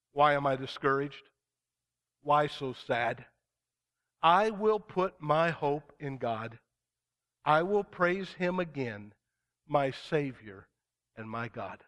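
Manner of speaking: slow, steady psalm reading; preacher reading a psalm of hope; earnest scripture reading. Acted. Reads psalm forty-two.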